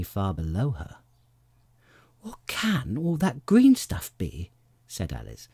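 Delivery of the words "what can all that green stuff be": high, slow, puzzled alarm; wondering aloud in worried high pitch. A narrator's reading. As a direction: voice a child's rising alarm. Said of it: "changed into alarm in another moment".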